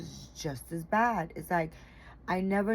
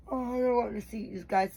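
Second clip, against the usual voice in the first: yawning; 5 semitones higher than usual. Real, not acted. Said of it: "I'm sorry, I'm yawning".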